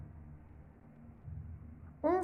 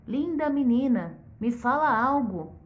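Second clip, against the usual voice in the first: polite request. Acted. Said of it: "todo educado".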